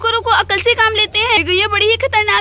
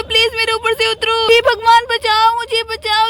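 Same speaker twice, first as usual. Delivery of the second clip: pleading for help. Acted. Mamta trapped under the cow, begging God for help. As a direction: beg God to save you.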